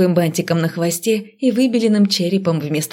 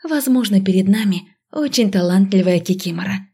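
unsure; 2 semitones higher than usual. Acted. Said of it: "неуверенно предположила я".

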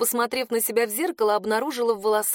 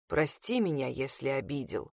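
very low, much softer, fading to a breath; a dying man's goodbye; faint farewell; 8 semitones lower, 8 dB quieter than usual. A narrator's reading. Attan bids her farewell, low and fading away.

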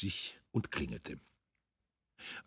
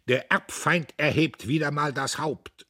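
raised, loud battle cry; death-defying shout; 8 semitones higher, 6 dB louder than usual. A narrator's reading. Dietrich draws his sword in debate, defiant shout. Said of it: "schrie er mit Todesverachtung".

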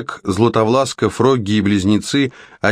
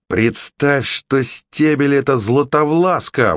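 shouted urging; 6 semitones higher than usual. A narrator's reading. Conor goads Red into hitting harder, shouting. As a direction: pitch climbing into a high call. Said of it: "выкрикнул Конор".

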